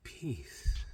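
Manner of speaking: very soft, falling release; imitating a hushed, calming sign-off; imitated calm. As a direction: let the word sink away quietly. Repeats the guide's calming word.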